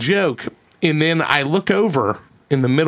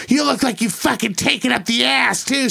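mock taunt; 9 semitones higher than usual. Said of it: "she said that".

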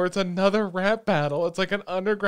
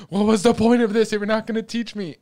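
indignant complaint; 6 semitones higher, 8 dB louder than usual. Retold or imitated. Character's frustrated quote retold.

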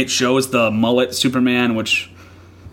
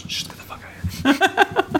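squeaky, much higher joking brush-off; mock artist voice; 3 dB quieter than usual. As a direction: play the artist shooing a fan in a silly falsetto. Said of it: "and goes".

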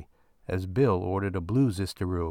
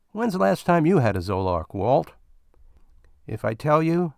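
higher, louder miner voices; bickering miners; 4 semitones higher, 4 dB louder than usual. Acted. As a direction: bicker like stuck partners.

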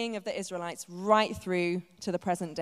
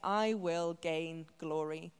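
slow solemn; 2 semitones lower, 4 dB quieter, much slower than usual. Acted. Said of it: "God is saying".

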